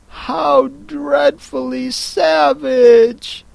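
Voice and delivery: slow, high, drawn-out shock; shocked exclaim. Acted. Alice appalled at the Queen, slow shocked exclaim. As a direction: gasp it out slowly, appalled. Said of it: "exclaimed Alice".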